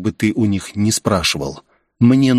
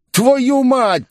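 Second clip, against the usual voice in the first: yelled curse; 14 semitones higher than usual. A narrator's reading. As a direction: bark the curse as he's hit, much higher. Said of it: "прокричал он".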